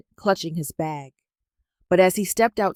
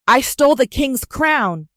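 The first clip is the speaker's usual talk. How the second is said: higher, louder anguished cry; shouted confession; 7 semitones higher, 6 dB louder than usual. A narrator's reading. Nonso confessing to the market crowd, shouting. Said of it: "he shouted".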